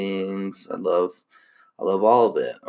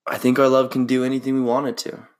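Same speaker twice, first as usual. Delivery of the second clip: romantic quote; 3 semitones higher, faster than usual. Pretend. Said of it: "let's find a little bit".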